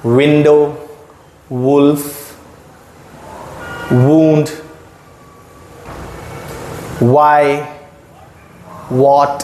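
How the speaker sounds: विंडो, वुल्फ, वुंड with lips rounded like a whistle; slow whistle-lipped W words. Shown as a demonstration. Teacher drills W words, lips rounded. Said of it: "like you are whistling".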